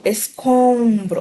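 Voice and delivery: escombro slowly, "om" as one nasal õ; slow escombro with a held nasal õ; one nasal sound. Shown as a demonstration. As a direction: draw out the nasal vowel in escombro. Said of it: "tô falando um som só".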